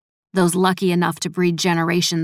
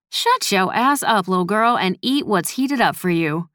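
groaning; 2 semitones higher than usual. Acted. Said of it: "Gertie groaned as she straightened up".

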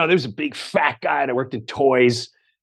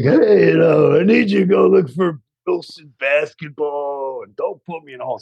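phone prank character. Retold or imitated. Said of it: "as characters all day long".

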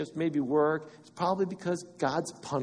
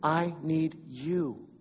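desperate plea; slower than usual. Retold or imitated. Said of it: "it was a desperation cry".

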